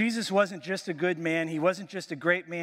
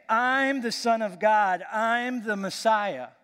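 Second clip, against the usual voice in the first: imagined Jesus proclaiming; 4 semitones higher, 3 dB louder, slower than usual. Retold or imitated. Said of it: "Why didn't he just say".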